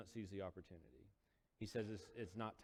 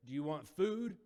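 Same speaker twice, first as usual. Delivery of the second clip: raised voice calling to the crowd; 5 semitones higher, 7 dB louder than usual. Retold or imitated. Jesus calling out to the crowd, raised voice. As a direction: call it out across the water.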